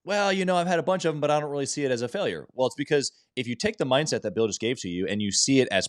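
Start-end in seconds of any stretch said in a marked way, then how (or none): 0.0-2.5 higher, imitating a coy guest who plays down failure; lightly voiced humble guest, up high; mock guest answer. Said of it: "Usually the response is".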